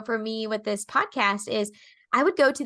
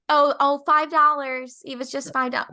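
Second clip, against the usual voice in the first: downplaying; 2 semitones higher, 4 dB louder than usual. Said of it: "Or you'll say".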